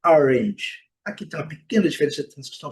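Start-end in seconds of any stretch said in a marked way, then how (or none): 0.1-0.9 orange said AR-inge, louder, short i; technically correct pronunciation. Shown as a demonstration. Teacher gives the correct form, technically correct pronunciation. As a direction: say orange firmly with a short i ending. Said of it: "A pronúncia tecnicamente correta é".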